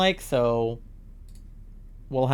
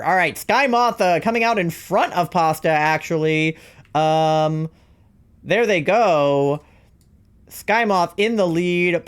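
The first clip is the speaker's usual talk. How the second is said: sportscaster voice. Acted. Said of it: "Generic, fast, overactive announcer".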